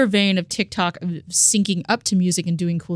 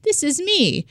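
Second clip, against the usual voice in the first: TikTok meme voice; 4 semitones higher than usual. Retold or imitated. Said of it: "he would do that meme on TikTok".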